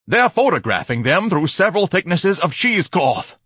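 high, loud, indignant splutter; outraged spluttering. A narrator's reading. Ignatius heckles the film in the cinema, spluttering loudly. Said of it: "he spluttered".

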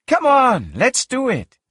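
high-pitched, excited coaxing; eager urging. A narrator's reading. Character eagerly urging companion onward.

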